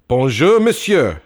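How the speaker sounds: high, loud pupils' reply; class chorus. Acted. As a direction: answer like a class reciting together. Class answers teacher.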